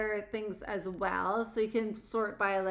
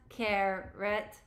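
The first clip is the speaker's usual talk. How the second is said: flat robotic syllables. Shown as a demonstration. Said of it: "say it like a robot".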